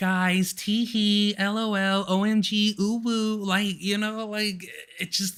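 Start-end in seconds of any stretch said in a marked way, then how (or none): 0.0-3.4 very slow, drawn-out, fake bubbly gushing cheer. Mocking someone's sudden switch from bawling to cheerful, imitating Becky's fake bubbly friendliness. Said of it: "now you're over here like".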